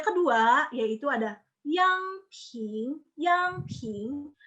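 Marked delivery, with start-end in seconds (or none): 1.6-4.3 "yang ping" slow, each syllable carefully pitched; second tone. Shown as a demonstration. Teacher naming the second tone, careful Mandarin tones. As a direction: stretch out "yang ping" as tone names. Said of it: "diucapkan dari rentang tengah".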